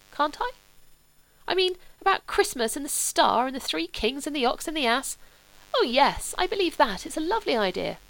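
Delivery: a hint of a dreamy, earnest young man; young Sebastian.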